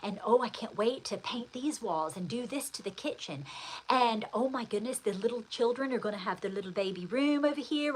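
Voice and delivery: lightly voiced gushing list of plans; acted-out excitement. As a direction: imitate an eager new homeowner, mildly. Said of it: "You're excited. You're like".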